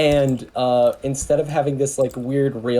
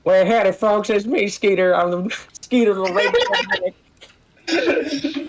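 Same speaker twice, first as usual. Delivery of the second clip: high-pitched Southern redneck introduction; redneck character voice; 7 semitones higher than usual. Acted. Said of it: "I will do a voice".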